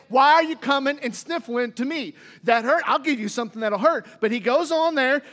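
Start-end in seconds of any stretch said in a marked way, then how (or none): 0.1-4.1 mocking stern God. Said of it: "imagine God looking down at Moses and saying".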